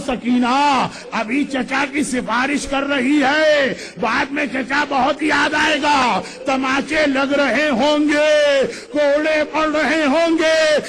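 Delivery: slow, wailing lament. Acted. Preacher mourning the blows Sakina will suffer, slow wailing lament. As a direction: draw each line out in grief.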